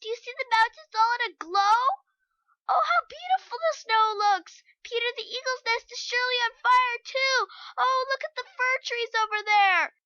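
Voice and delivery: high, loud, breathless wonder; thrilled little girl. A narrator's reading. Heidi showing Peter the sunset, high excited girl voice. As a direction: point at the glowing peaks.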